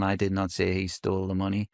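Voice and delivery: "did" pushed up and held a touch longer; stress on DID. Shown as a demonstration. Demoing to a coach how stress on "did" shifts meaning. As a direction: lean on "did" so it denies the act itself. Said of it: "put the emphasis on the different words".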